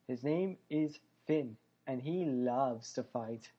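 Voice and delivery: slow, hammed-up bad Irish accent; a clumsy stab at an Irish accent; mock Irish brogue, badly done. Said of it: "Can't do an Irish accent for shit".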